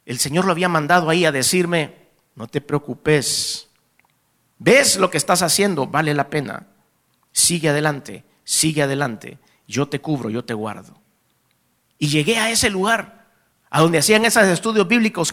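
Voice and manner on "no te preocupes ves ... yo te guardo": gentle reassurance. Retold or imitated. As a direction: reassure tenderly, easing down to the end. God reassures the afflicted preacher. (consuelo suave y sereno)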